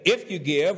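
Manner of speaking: "If" punched with a rise; stress on if. Shown as a demonstration. Pastor contrasting for congregation, stress on if. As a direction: hit "If" as the wrong word. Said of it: "So he doesn't say".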